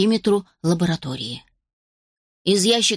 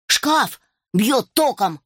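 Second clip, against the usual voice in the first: slow complaint; 3 semitones higher, much slower than usual. A narrator's reading. Alfie shocked by cabinet.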